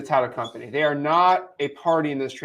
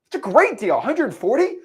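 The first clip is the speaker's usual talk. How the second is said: higher, eager buyer voice; pleased buyer; 3 semitones higher than usual. Retold or imitated. Buyer reacting to the wholesale price, higher and eager. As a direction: talk yourself into the deal. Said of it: "He says".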